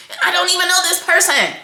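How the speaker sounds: half-crying laugh. Real, not acted. Laughing, crying over stranger's story.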